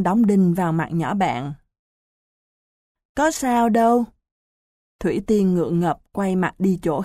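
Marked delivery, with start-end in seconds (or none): 3.1-4.0 evasive hesitance. Acted. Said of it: "giọng vẫn lừng khừng".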